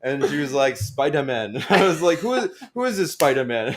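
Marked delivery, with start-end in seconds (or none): 0.8-1.6 retold teacher's African accent. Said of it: "heavy African accent". 2.2-3.7 put-on high, loud African-accented teacher; laughing through an African accent impression. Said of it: "heavy African accent".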